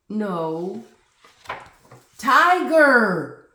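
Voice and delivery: loud, building protest to a loud final tiger; exasperated rant. Acted. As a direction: insist harder and harder.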